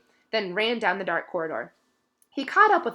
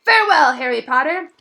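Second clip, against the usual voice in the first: much higher, louder elf cry; tearful farewell; 8 semitones higher, 12 dB louder than usual. A narrator's reading. Dobby bids Harry farewell before vanishing. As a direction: call out goodbye.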